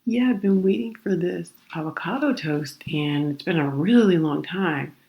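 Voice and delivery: hesitant, polite customer voice. Retold or imitated. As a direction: tread gently with the server. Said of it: "I'm being polite".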